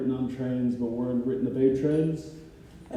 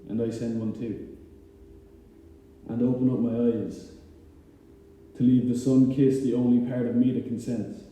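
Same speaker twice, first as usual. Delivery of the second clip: unhurried spoken-word delivery; poem reading; 4 dB louder than usual. Acted. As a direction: give each line room, with pauses between. Recites own poem Morning Prayer.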